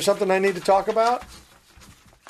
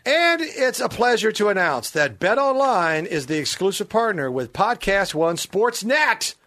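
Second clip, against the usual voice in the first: ad read; slower than usual. Acted. Reads a sponsor ad.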